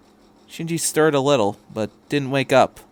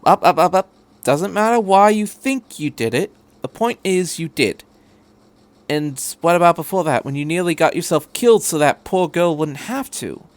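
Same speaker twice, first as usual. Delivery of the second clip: a touch louder, cutting him off; firm interruption; 5 semitones higher, 4 dB louder than usual. Acted. Doctor cutting off Shinji's protest, firm. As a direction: stop him with repeated up. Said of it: "The doctor cut him up".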